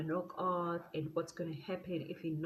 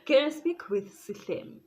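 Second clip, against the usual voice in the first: raised, higher insistent question; bold phone request; 8 semitones higher, 7 dB louder than usual. Retold or imitated. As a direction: demand him loudly. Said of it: "I almost said his name".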